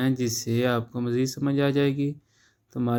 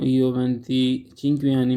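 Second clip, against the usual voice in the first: slow model sentence; much slower than usual. Shown as a demonstration. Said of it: "teacher models Italian slowly".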